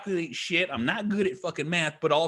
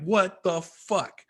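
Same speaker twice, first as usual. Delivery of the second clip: stunned disbelief; 3 semitones higher, much slower than usual. Retold or imitated. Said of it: "literally sitting there like".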